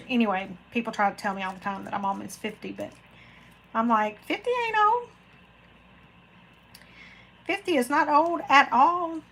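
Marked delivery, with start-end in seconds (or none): 4.2-9.2 much higher, sassy comeback voice; mock-indignant high-pitched reply; sassy retort. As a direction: toss it back with a cheeky high lilt. Retorting to people about her age.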